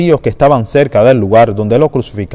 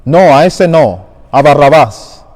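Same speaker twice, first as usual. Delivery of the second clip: crowd shouting; 2 semitones higher, 4 dB louder than usual. Acted. Crowd to Pilate, demanding Barrabás, shouted. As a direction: call it out as an angry mob. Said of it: "todos ellos gritaron".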